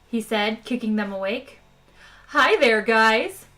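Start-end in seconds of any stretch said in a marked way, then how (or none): 2.3-3.5 loud chirpy machine greeting; twittering computer. Acted. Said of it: "twittered the computer".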